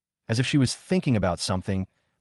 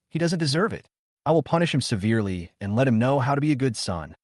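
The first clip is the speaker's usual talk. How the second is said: angry rant; 2 semitones higher than usual. Acted. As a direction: rant at the daughter. Mother ranting angrily.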